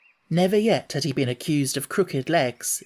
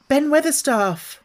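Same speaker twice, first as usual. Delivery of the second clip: put-on raised girl's call up to the wall; 10 semitones higher, 4 dB louder than usual. Mary calling up to Ben on the wall, high call. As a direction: call his name up to him, a bit breathless. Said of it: "called out Mary".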